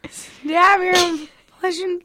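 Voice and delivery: high, slow line strained by held-back laughter; stifled laugh. Retold or imitated. Actor fighting laughter onstage, high and strained. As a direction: try to deliver the line while cracking up. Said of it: "I couldn't cover for her".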